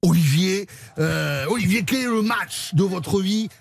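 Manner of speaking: lightly hammed southwestern French accent; half-time interviewer with a Sud-Ouest twang. Host interviews the rugby coach in a mock southwestern accent. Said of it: "Je vais le faire avec l'accent".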